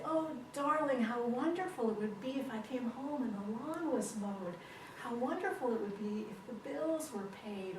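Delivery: sweetly wishful, loving wife. Acted. Wife hinting to husband about chores, lovingly. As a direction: coax gently, lifting the opening endearment. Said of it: "she always did things in a loving way".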